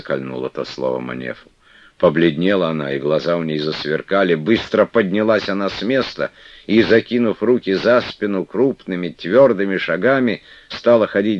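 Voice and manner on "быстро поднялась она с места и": plain reading voice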